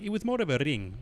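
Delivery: lightly put-on Spanish accent, lisped. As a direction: imitate a Spaniard, rolling the R of "ring". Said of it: "the rolling R's and the".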